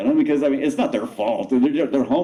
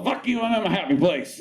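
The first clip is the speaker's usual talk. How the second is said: dog's voice; 10 semitones higher than usual. Retold or imitated. Voicing the husky dog.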